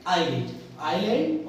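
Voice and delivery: "आईलैंड" said twice, no S; silent S. Shown as a demonstration. Teacher answering what we say, "आईलैंड" with silent S. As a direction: repeat "आईलैंड" going straight from the vowel to L. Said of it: "पर हम क्या बोलेंगे?".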